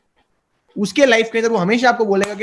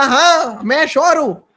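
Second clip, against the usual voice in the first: retold firm yes, pitched up; emphatic assurance; 5 semitones higher, slower than usual. Son answering his doubting father, retold with emphatic assurance. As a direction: insist you are sure, acting it out.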